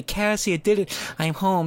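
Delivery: light heroic dad voice; hero's return. Pretend. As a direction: call home like a returning hero. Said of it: "I thought it was gonna be".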